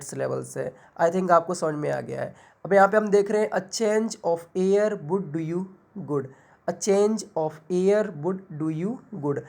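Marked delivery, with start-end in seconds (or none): 3.5-6.3 "A change of air would do you good" slow, with change and air drawn out; slow rhythm demo, leaning on "change" and "air"; stretched stressed words. Shown as a demonstration. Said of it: "किसी word को खींच के बोल रहे हैं". 6.7-9.4 "A change of air would do you good" slow, with change and air drawn out; slow rhythm demo, leaning on "change" and "air"; stretched stressed words. Shown as a demonstration. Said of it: "किसी word को खींच के बोल रहे हैं".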